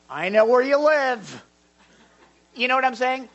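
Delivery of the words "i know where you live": loud, drawn-out mock threat, pitched up; hammed-up warning that someone is being watched; menacing threat. Shown as a demonstration. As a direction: put on a big, slow, looming threat. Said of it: "That's not how I take it".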